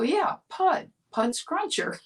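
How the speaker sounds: a first grader stating the obvious; insistent child. Retold or imitated.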